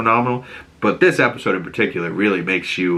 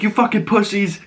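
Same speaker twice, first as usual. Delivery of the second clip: Vic's sneering voice, pitched much higher; mocking insult; 12 semitones higher than usual. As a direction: spit out the insult with contempt. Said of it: "Vic's like".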